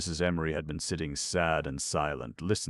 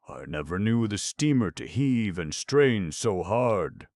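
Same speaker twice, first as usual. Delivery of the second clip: loud; 4 semitones higher, 5 dB louder than usual. A narrator's reading. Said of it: "replied the mate".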